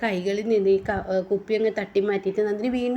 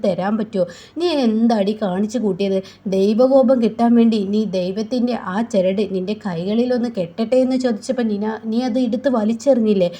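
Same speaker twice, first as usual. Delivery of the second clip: loud, heated tirade; furious scolding; 5 dB louder than usual. Acted. Drunk Nandini scolding Veda for her arrogance. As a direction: lecture her loudly and angrily. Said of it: "ദേഷ്യം പിടിക്കുകയാണ്".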